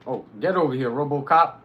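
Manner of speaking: loud taunting call at an enemy. Real, not acted. Streamer calling the enemy over, loud taunt. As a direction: yell him over to you.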